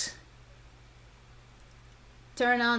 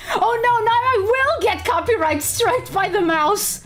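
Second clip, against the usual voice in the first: laughing; 10 semitones higher than usual. Real, not acted. Laughing at copyright joke.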